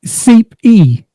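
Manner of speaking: high put-on British accent dropping the T's; mock British accent. Wife teasing husband about his accent, high mock British. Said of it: "Don't sound like that".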